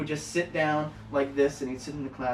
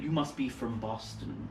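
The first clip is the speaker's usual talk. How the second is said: slow, softer haughty teacher voice; Mid-Atlantic teacher; 4 semitones lower, 7 dB quieter, slower than usual. Retold or imitated. Teacher mocking a Boston student, slow Mid-Atlantic. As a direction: sniff at the student's Boston accent. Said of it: "awful New England accent".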